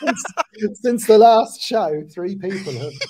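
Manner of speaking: loud, slow, giggling, laughing through words. Telling a grim statistic about coconut deaths, laughing while talking. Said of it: "Don't know why I'm laughing".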